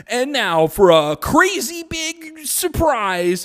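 slow, high announcer voice; mock game-show host reveal; hammed-up TV host announcement; reality show host. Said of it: "they're like".

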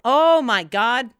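loud, drawn-out hammed-up awe; mock amazement. Onlooker at the absurd birth, hammed-up amazement. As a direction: exclaim it high and slow, mock-amazed.

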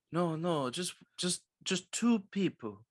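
badly faked Hispanic accent, pleading; mock Hispanic accent. Hotel clerk mimicking a guest, bad Hispanic accent. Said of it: "That's a terrible accent".

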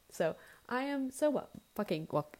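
stumbling over the words; words catching, can't get them out; tongue-tied. Real, not acted. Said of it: "I can't speak".

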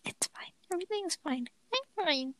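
whispered, high "everything's fine"; mock calm whisper. Joking about election chaos, in a mock calm whisper. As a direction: hush it out like nothing is wrong.

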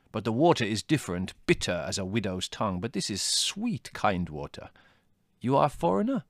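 lightly voiced Greek countryman; local peasant. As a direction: speak as a village man chatting to a stranger.

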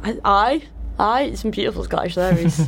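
light put-on Scottish accent; a quick playful go at a Scottish accent. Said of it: "This is the second time doing my Scottish accent on air".

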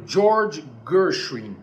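George Gershwin said the English way; English pronunciation. Shown as a demonstration. Teacher names the composer for viewers, English pronunciation. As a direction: say "George Gershwin" as an American name. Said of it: "a pronúncia em inglês é essa".

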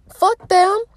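fuck them squealed very high with a laugh. Real, not acted. Vlogger to listeners who judge, a high laughing squeal. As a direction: let the laugh break into a high, loud squeal.

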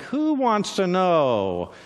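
slow, wary Who wants to know?; a hunted man asking warily, slow and suspicious; suspicious challenge. Acted. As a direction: drag out Who wants to know? like sizing up a spy. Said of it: "and it's like".

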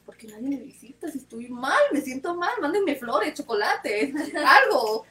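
mock-indignant complaint, rising in pitch as it goes; retold indignation. Patient complaining that nobody visits her, mock-indignant. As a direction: build to a comic demand, laugh at the end. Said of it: "yo todavía me enojé y decía".

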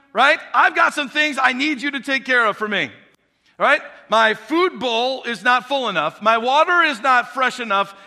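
a spoiled cat listing chores for its servant; cat bossing the owner around, high and loud; entitled cat. Acted. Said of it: "The cat says this to the owner".

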